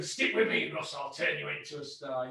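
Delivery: lightly voiced Dennis, dropping soft at the end; a hint of a smug manager promising fame; Dennis impression. Teasing his co-host as Dennis, softly smug. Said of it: "I'll do my Dennis impression".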